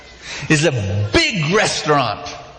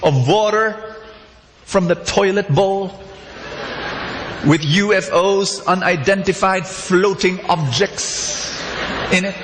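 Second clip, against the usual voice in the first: hammed-up odd customer; 4 semitones higher than usual. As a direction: savour the disgusting order like a delicacy. Customer orders toilet water.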